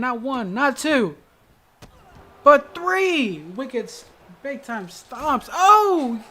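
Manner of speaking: live wrestling call, climbing in excitement; excited call. Real, not acted. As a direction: count the hits with rising excitement. Counting stomps in live wrestling call.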